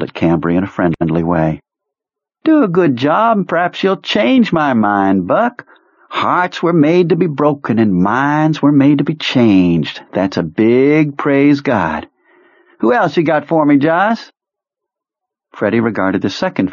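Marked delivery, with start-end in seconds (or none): 2.4-14.3 put-on much higher, theatrical old commander; high eccentric officer voice. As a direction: play the odd colonel, high and grand. Kurtz's high character voice.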